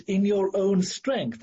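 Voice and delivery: "in your own strength" slow and deliberate; emphatic stress. Real, not acted. Preacher warns Christians they still can't, stressing "in your own strength". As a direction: weigh out each word of "in your own strength". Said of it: "I emphasize those words".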